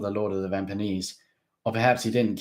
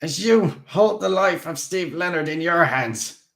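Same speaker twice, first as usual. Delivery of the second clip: raised and loud; quick; 9 semitones higher, 8 dB louder than usual. A narrator's reading. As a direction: rush the threat. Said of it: "Haas said quickly".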